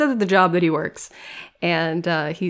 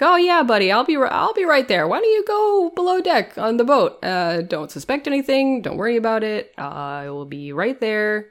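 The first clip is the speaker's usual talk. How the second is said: fake friendly cop; 4 semitones higher than usual. Crooked cop lures mob boss.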